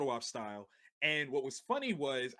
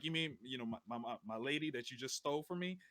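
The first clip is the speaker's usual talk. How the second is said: mock heartbroken; 3 semitones lower, 6 dB quieter, faster than usual. Mock-jealous retort to friend.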